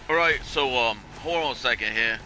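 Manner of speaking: badly faked New York accent; poor New York accent. Insurance agent stalls a caller, poor New York accent. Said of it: "that's a very poor New York accent".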